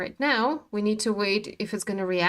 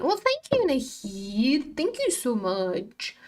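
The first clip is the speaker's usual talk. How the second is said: mock sweet thanks; 2 semitones higher, slower than usual. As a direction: play it coy and flattered. Thanking viewer for compliment.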